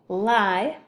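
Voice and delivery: "Li-lac" with a long pause between li and lac; split by syllable. Shown as a demonstration. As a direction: break "Li-lac" into two held syllables. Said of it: "So two syllables".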